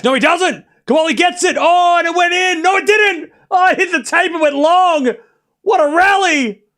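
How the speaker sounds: high, shouted play-by-play burst; thrilled high-pitched match call; excited commentary. Real, not acted. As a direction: call the wild rally in disbelief, voice way up. Live rally takes a dramatic turn.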